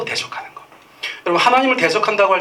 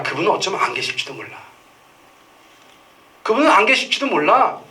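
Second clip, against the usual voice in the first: bitter doubting complaint; 4 semitones higher than usual. Acted. People doubting God voiced.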